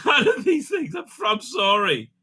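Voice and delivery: high, giggly retelling of a friend's verdict; laughing quote. Retold or imitated. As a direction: laugh through a mock apology. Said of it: "Jen says".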